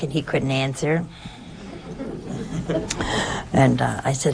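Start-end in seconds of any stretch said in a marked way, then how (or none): 1.1-3.5 soft laugh. Real, not acted. Laughing at uncle's tears.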